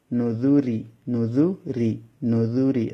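নুজুরি with a soft "dh" as in English "this"; soft DHAL. Shown as a demonstration. Teacher drills students on the soft letter, "nudhuri" for নুজুরি. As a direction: soften the middle of নুজুরি to "nudhuri". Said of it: "দাল নরম হবে".

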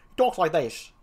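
lightly put-on clown voice; a hint of a character voice; first clown voice. Shown as a demonstration. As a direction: try out a comic gravedigger. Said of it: "I think I'll give him the voice".

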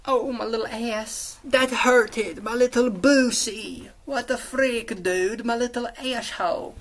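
high, drawn-out goofy whine; silly mock-hurt voice. Tired recorder breaks off recap to moan, silly high voice.

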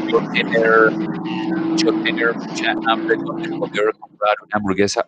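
a light mock foreign accent in broken Spanish; foreigner's broken Spanish. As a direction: imitate a foreigner struggling with Spanish. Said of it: "el extranjero viene con roca que dice".

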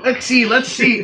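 a light cowboy voice, a bit slow; lightly voiced cowboy, high and unhurried; Cowboy Jeff voice. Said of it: "my best Cowboy Jeff impression".

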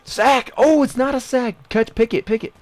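high, loud rapid shouting; urgent cries for the interception; frantic excited call. Real, not acted. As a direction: yell as the play flips back and forth. Frantic play in game.

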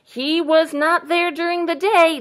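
a hint of an emphatic buck. A narrator's reading. Storyteller voices buck sure of himself, lightly voiced buck. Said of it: "answered the buck".

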